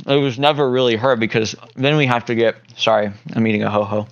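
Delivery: talking while chewing; words round a mouthful of snack cake; mouth full. Real, not acted. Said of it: "the scarfing of it down your mouth while you're talking".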